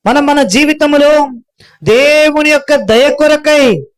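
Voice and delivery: preacher's emphatic repeat. Shown as a demonstration. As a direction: lift the line up to the congregation. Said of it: "repeated louder".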